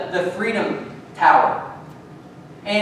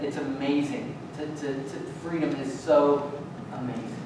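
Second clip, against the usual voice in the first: low, soft, reverent voice; subdued and heartfelt, dropping softer; hushed, moved retelling; 5 semitones lower, 7 dB quieter than usual. Retold or imitated. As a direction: retell it quietly, as if deeply moved. Retelling friend's moved words about freedom.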